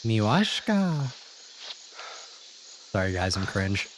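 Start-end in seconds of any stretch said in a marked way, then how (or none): 0.0-1.1 slow, hammed-up fake Russian accent; mock Russian accent. Streamer teasing a soldier's voice for chat, mock Russian accent. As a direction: lay on a silly Russian accent, drawn out. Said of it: "Why does that guy have a Russian accent?".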